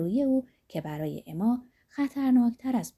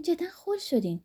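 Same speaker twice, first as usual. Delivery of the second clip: high teasing giggle falling on «خل»; «خل» stressed, tune falling away; laughing scold, «جدا خل شدین» dropping; melodious little laugh; 9 semitones higher than usual. A narrator's reading.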